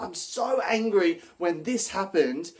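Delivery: demo angry line. Shown as a demonstration. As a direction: sound properly angry about it. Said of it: "So we're talking about".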